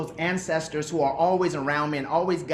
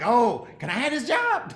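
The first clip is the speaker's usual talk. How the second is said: higher, slower, playful plea for the job; mock hopeful ask; 7 semitones higher than usual. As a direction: act out eagerly begging for the job. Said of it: "And I was like".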